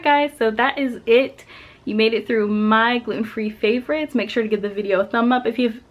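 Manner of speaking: breathless after cycling; out of breath. Real, not acted. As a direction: talk while catching your breath. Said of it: "out of breath".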